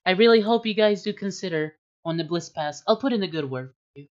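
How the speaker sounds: a hint of a polite noblewoman taking leave; noble lady voice.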